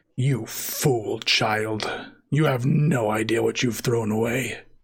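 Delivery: voice echoing and reverberating, ringing around. Game master voicing a mysterious speaker as players move into position, echoing voice. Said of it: "there's going to be an echoing voice".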